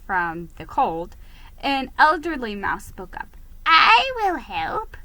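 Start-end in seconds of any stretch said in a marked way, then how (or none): 3.7-5.0 put-on slow, higher, frail old voice; feeble croak. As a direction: offer help like a frail elderly mouse. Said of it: "he croaked in a feeble voice".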